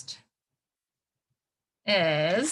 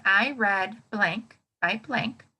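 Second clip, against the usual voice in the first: slow model sentence; slower than usual. Shown as a demonstration. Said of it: "each one you need to kind of fill in".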